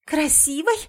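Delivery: hoarse outraged cry. A narrator's reading. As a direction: throw it back in horror. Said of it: "сиплю".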